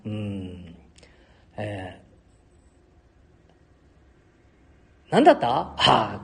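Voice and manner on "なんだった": cracked, jumping high and loud; voice cracking. Real, not acted. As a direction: voice flips up high mid-question. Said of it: "声が裏返ってやるだろ".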